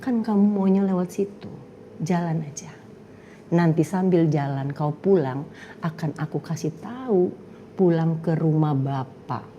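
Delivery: God's voice. Retold or imitated. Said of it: "Suara itu bilang apa?".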